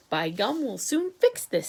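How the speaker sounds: बौखलाकर तीखे स्वर में; snapping. Acted. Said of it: "snapped the president".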